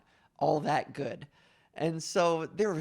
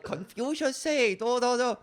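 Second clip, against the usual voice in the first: mock Chinese stereotype; 6 semitones higher than usual. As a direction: play the cringe Confucius bit for laughs, in a mock Chinese accent. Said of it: "with a rice hat on and be like".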